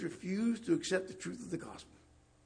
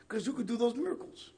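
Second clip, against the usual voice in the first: ordinary delivery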